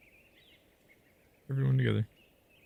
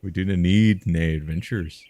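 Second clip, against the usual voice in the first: hammed-up declaration; 9 dB louder than usual. Another hammed-up try at the line.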